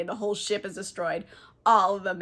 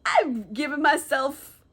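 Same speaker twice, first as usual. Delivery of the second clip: tipsy, slightly slurred; 2 semitones higher than usual. Real, not acted. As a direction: talk like you've had a few. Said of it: "because I am drunk".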